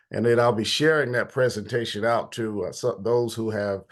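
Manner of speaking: stuffy nose voice; blocked nose. Real, not acted. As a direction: speak through a stuffed-up nose. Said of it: "I'm a little stuffy this morning".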